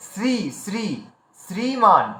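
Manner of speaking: শ্রী and শ্রীমান with a clear sr cluster; correct r pronunciation. Shown as a demonstration. Teacher drilling a sound often dropped, clear r in শ্রীমান. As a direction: sound the র firmly in শ্রী, each said separately. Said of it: "এই যে উচ্চারণটা আমরা করছি".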